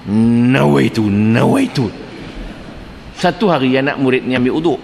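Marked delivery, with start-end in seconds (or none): 0.0-1.9 nawaitu slowly drawn out on a held N; straining to intend. Acted. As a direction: labour over each nawaitu like an obsessive doubter. Mimics doubter straining to intend. (niat meleret-leret penuh was-was)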